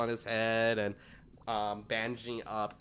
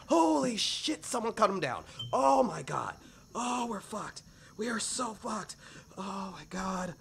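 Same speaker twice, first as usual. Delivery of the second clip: high, squeaky goblin panic; panicked goblin; 10 semitones higher, 3 dB louder than usual. Acted. Goblin panicking that someone cut him down. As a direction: freak out in a pinched high voice.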